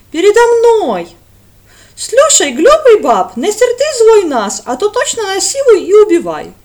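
bully her in clumsy Russian; loud mock threat, foreign voice; menacing foreigner.

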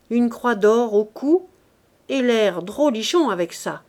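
a hint of a cocky teller enjoying the news; lightly voiced Lantier. Lantier gleefully tells of Nana. (Lantier raconte à Gervaise, voix gouailleuse plus forte)

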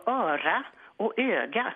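demonstrated ö vowels in "öra" and "öga"; contrasted ö sounds. Shown as a demonstration. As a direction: open ö in "öra", closer ö in "öga". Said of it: "kan man inte skilja på".

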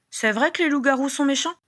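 put-on high-pitched, innocent little boy asking; child's question. A narrator's reading. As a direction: ask it as a curious child. Child's question silences the table. (question innocente d'enfant)

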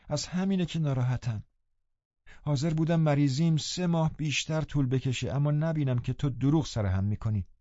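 put-on mildly grieved reproach to a loved girl; sorrowful. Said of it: "با غم و درد گفتم".

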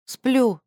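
every sound distinct; crisp and clear. Acted. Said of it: "отчётливо отозвалась она".

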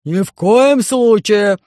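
громовой крик, громче, выше и очень медленно; рявкни запрет; кричит басом. Acted. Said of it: "закричал Громозека". (Громозека громко кричит на Алису)

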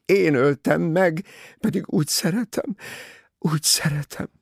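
high, loud anguished outcry; anguished cry. A narrator's reading. Jacqueline cries out her guilt to Poirot, high and loud. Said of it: "újra felkiáltott".

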